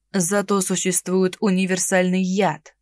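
ровно и холодно, ниже; ледяное замечание. Acted. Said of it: "холодно проговорил он". (холодный тон)

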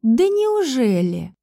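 slow, sarcastic drawl; slow mocking disbelief. A narrator's reading. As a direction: drip sarcasm, stretching it slowly. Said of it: "спросила я с сарказмом".

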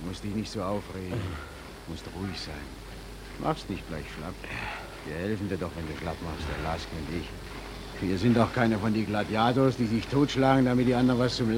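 calming. Acted. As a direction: soothe a panicked friend. Calming the collapsed man. (beruhigend leise)

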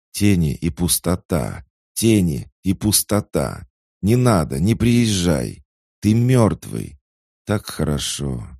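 high, loud, panicked pleading; frightened sister begs him to stay away; terrified. Acted. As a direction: beg in horror, voice climbing. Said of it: "Теперь в её голосе сквозил ужас".

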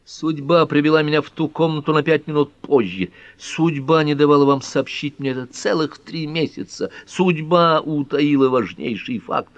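high, ringing outburst against fate; agitated, high-pitched reproach; impassioned lament. Acted. Ellery bitterly blames fate.

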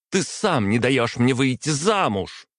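заметно выше, на грани крика; кричать от отчаяния; почти крик. A narrator's reading. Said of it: "Варвара уже практически кричала". (дочь почти кричит отцу, голос высокий)

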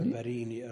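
البرين with a long "ee" after the r; kasra on ra. Shown as a demonstration. Teacher correcting the reader's word, kasra on the ra. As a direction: say البرين as al-bareeni. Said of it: "الراء مكسورة".

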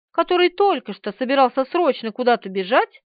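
plain reading voice

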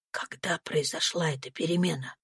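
barely voiced question at a deathbed; hushed whisper. A narrator's reading. Doctor asks Miss Ophelia at the sickbed, whispering. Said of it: "спросил он тихим шёпотом".

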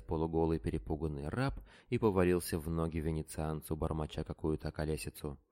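usual speaking voice

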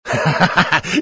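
short mocking laugh; Grigory suddenly laughs at his brother. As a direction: burst into a jeering laugh. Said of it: "вдруг засмеялся".

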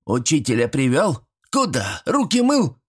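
high, quick-fire granny questions; granny questioning. Acted. Grandmother quizzes the boy about the teacher, sharply. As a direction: check up on the boy.

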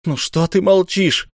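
high, slow and desperate plea; despairing question to a silent ruler. Acted. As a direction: beg him to answer, at the end of hope. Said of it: "спросил Ра в отчаянии".

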